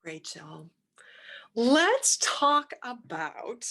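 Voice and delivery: breathy slow whisper to open. Acted. Host whispering to guest to open the show. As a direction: hush it out slowly like a secret.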